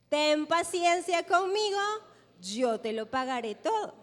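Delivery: preacher leading the congregation through the servant's plea; leading a repeat. Shown as a demonstration. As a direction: lift the plea so the church can echo it. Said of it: "repitan todos conmigo el último pedacito".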